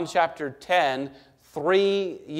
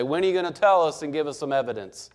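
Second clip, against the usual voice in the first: mock prosecutor; faster than usual. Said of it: "the person on the prosecution gets up and say".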